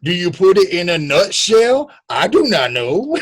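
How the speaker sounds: high, hammed-up courtroom questioning; put-on Southern orator; mock Southern lawyer. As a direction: pose it to the jury as a blustering attorney. Resumes the Southern lawyer bit.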